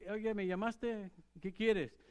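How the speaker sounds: put-on a sleepy boy rushing in to ask; lightly voiced boy Samuel, eager. Boy Samuel answering priest.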